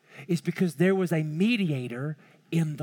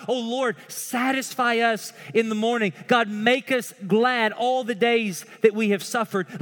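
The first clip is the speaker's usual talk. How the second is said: urgent plea, raised pitch; pleading; 4 semitones higher, 3 dB louder than usual. Acted. Preacher voicing Moses praying to God, pleading. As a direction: plead with rising force and hard-hit key words. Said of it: "Moses is pleading with God".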